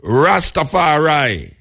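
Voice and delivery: Rastafari drawn out slowly as one word. Shown as a demonstration. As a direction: say Rastafari slowly, RAS-ta-fa-RAI. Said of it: "like when you say".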